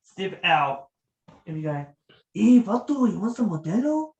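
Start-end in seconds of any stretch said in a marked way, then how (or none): 2.3-4.1 high-pitched comic vato voice; playful vato impression, pitched up. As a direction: put on a much higher character voice, opening loud. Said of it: "I do my voice impressions".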